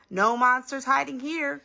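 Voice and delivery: high, slow sing-song announcement; mother's all-clear. A narrator's reading. Mother reassures child after monster check.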